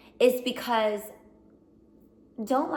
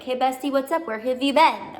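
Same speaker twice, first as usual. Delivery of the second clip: bubbly bestie greeting; 3 semitones higher, 5 dB louder than usual. Pretend. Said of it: "feel like I'm your bestie".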